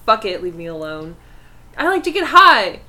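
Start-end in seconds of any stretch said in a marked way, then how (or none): 1.8-2.8 laughing. Real, not acted. Jokey rant about nosy neighbours.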